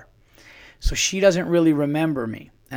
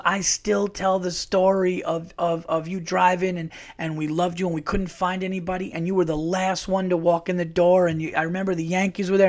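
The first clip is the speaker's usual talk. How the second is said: excited recollection; 5 semitones higher than usual. Retold or imitated. Retelling judge's excited recollection.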